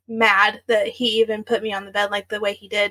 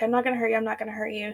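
dropping to a near hush; soothing, fading repetition; mild mock calming murmur; quieter repeat; 7 dB quieter, much faster than usual. Boyfriend repeats it, backing off.

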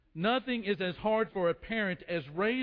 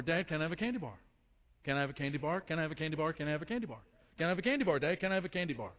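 lightly voiced child nagging on repeat; pestering little boy; 3 semitones lower, much faster than usual. Little boy begging Dad for candy, a hint of nagging child. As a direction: rattle off a mock pleading chant, barely pausing. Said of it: "the little boy is asking for a candy bar".

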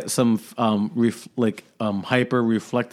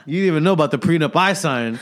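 gloating shout; 4 semitones higher, 4 dB louder, faster than usual. Acted. Mocking spouse over secret prenup.

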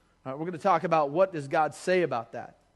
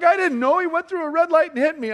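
imitating sister; 11 semitones higher, 9 dB louder than usual. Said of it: "She's like".

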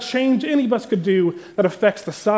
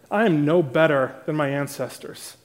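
cynical; 3 semitones lower than usual. Shown as a demonstration. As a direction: let the bitterness seep into every word. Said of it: "Can you hear the cynicism?".

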